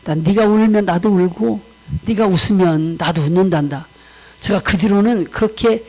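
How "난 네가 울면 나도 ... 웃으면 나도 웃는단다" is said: lightly voiced God, a little lower; a hint of a fatherly God; God speaking. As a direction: console gently as God, pitch settling low. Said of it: "하나님이 어느 날 새벽에 제게 그렇게 말씀을 하시더라고요".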